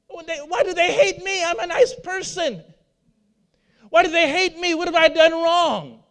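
lightly voiced, puzzled and hurt; hurt believer. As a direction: play the wounded churchgoer asking why.

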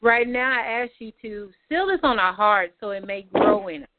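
earnest prayer voice, lifting names up to God; closing prayer. Real, not acted. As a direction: pray it over the group with conviction.

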